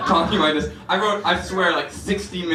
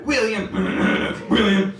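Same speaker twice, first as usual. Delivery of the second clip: whispered name demo; 2 semitones higher than usual. Shown as a demonstration. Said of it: "will sound like this".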